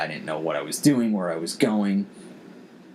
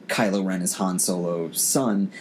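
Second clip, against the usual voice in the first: ordinary delivery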